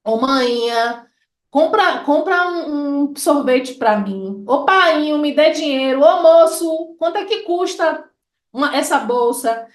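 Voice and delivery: put-on child begging mom, then calling the vendor; lively Bahian street calls; hailing mom, dad and a vendor; everyday Bahian calls. Shown as a demonstration. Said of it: "no vocativo da gente".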